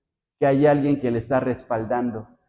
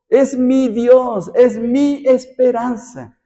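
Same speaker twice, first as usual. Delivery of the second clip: "Es mi Dios" slow, higher, louder; stress on mi; 9 semitones higher, 5 dB louder, much slower than usual. Shown as a demonstration. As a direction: claim God as yours, slowly. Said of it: "David se apropia a Dios".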